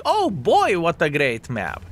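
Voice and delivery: sarcastic fake excitement, "Oh boy" leaping way up; imitating a naive player cheering a bad map; mock enthusiasm. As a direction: voice the enemy player as a gleeful fool. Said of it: "He is like".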